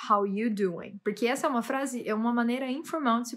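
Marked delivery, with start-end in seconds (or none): 0.1-1.0 "How you doing" run together casually, with no "are"; "are" left out. Shown as a demonstration. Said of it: "ele não pronuncia o are". ("How you doing" informal, sem pronunciar o "are")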